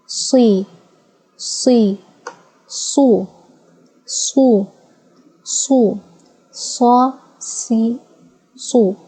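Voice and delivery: "sa", "si", "su" spelled out clearly with a heavy s; Arabic vowel drill. Shown as a demonstration. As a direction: drill sa, si, su like a teacher. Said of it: "pronounce it with different tashkil".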